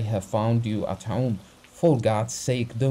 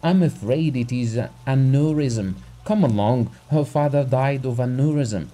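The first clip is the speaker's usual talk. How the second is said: higher, alarmed pleading; a terrified husband begging for help; frightened urgency; 4 semitones higher, 4 dB louder than usual. Acted. Husband begs the doctor to come, frightened and pleading. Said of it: "spoke quickly in a shaking voice".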